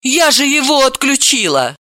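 high, startled protest; startled exclamation; exclaiming. A narrator's reading. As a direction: cry out in alarmed disbelief. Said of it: "она воскликнула".

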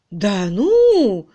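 ошарашенно; taken aback. A narrator's reading. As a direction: caught off guard. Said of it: "опешила".

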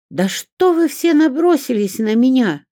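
high, loud cry with tears in the voice; tearful exclamation. A narrator's reading. Olga cries out at everyone ganging up, tearful. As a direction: protest on the verge of tears. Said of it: "со слезами в голосе воскликнула".

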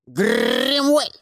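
croaked raven call; cawing raven. A narrator's reading. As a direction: caw the name like a raven. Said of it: "каркнул ворон". (каркающий вороний крик)

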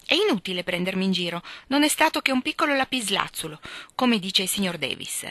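hint of a pompous schoolgirl; voiced Amy. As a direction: show off a big word proudly. Narrator voicing Amy.

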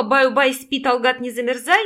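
loud mock-barked lullaby. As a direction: teasingly belt out a lullaby. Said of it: "Рявкнуть в ухо". (притворно рявкая колыбельную)

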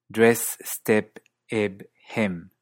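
DRESS, STEP, EB, HEM with closed New Zealand vowel; New Zealand dress, step, eb, hem, E nearing 'ih'; New Zealand accent. Shown as a demonstration. Teacher comparing three accents, New Zealand closed E. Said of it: "y Nueva Zelanda".

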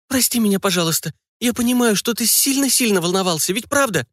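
put-on high girl's voice begging forgiveness; a little daughter wheedling her papa; pleading girl. Daughter hugging her father and begging pardon, high pleading girl.

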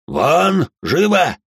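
loud, high, commanding; barked order. Acted. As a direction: drive them out of the room. Old lord orders staff out.

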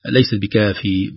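"بكافي" with an added long ya; "بكافي" stretched into a long ee; wrong pause. Shown as a demonstration. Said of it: "لو وقفنا". (خطأ: إشباع الكسرة ياءً)

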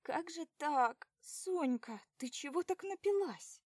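put-on girl lamenting her drunk friend. A narrator's reading. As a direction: wail over your friend. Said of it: "причитает она".

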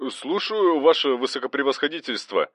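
high, startled duty officer answering; a scared clerk snapping to attention; a frightened radio clerk answering the governor on the phone. A narrator's reading. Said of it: "испуганно ответил дежурный".

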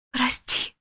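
a hushed, broken sorry; whispered. A narrator's reading. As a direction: whisper it in guilt. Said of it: "прошептала Гвоздю".

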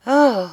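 high, loud "oh" of relief; audibly relieved "oh"; sigh of relief. A narrator's reading. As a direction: let out a relieved exclamation. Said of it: "avec un soupir de soulagement".

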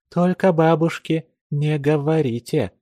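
usual speaking voice

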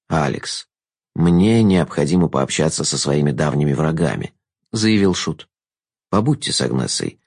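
silky courtly trickster; sly jester. A narrator's reading. Jester's lines.

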